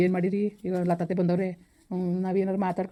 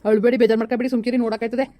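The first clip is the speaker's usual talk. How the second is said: higher and louder, urging her to stop crying; loud calming; 5 semitones higher, 6 dB louder than usual. Acted. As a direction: call out firmly to hush her tears. Calming his crying aunt loudly.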